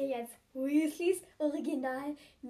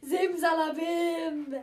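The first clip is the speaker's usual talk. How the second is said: put-on kids party magician; 2 semitones higher, 4 dB louder than usual. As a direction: announce it like a stage magician. Ron does nose trick.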